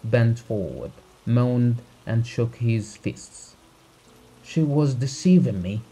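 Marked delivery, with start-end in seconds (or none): 4.4-5.8 DECEIVING cried out higher and louder, second syllable stressed; cried with emphasis. A narrator's reading. Betrayed husband to the doctor, crying out with stress on "deceiving". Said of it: "he cried".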